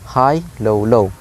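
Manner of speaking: "high" lifted, "low, low" dropping; "high" up, brief pause, "low, low" down; high-low-low pattern. Shown as a demonstration. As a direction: stress "high", then let "low, low" fall. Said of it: "So it's like high".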